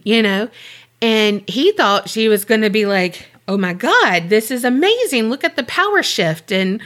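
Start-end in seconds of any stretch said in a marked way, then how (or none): 3.5-6.8 lightly gushing, imitated excitement; mock amazement. Girlfriend imagined praising the experiment, mock amazed. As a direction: act out an imagined thrilled reaction. Imagined delighted reaction, acted.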